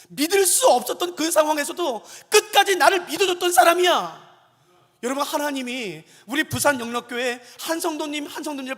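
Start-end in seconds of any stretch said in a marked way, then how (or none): 0.1-4.3 loud, high, impassioned boast as God; swelling, emphatic voice of God; acted divine pride. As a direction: proclaim praise of a faithful friend. Acts God proudly praising Abraham.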